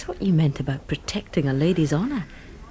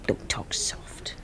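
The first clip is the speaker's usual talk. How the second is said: hushed, slow scolding whisper; whispered rebuke; 10 dB quieter, slower than usual. Acted. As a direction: whisper it, slowly, a gentle telling-off.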